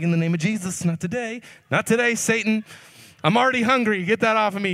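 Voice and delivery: playfully casting it off like a preacher; mock spiritual warfare, pushing the beads away; mock rebuke. Rebuking Hindu beads on his neck.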